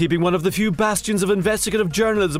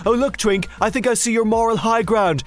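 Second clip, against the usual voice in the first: mocking pantomime; 3 semitones higher, slower than usual. Panto mockery of Twink.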